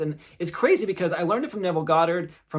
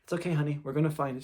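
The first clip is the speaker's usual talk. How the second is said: reassuring; 4 dB quieter, faster than usual. Retold or imitated. Dad soothing his crying child.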